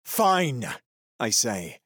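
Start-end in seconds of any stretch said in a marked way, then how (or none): 0.0-0.7 giving in. Acted. Prisoner giving in.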